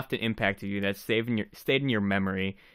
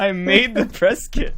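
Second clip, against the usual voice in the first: high, loud, slow and emphatic; exasperated insistence; 10 semitones higher, 9 dB louder than usual. Real, not acted. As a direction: hammer it home, half-laughing. Mock-outraged reminder to forgetful colleague.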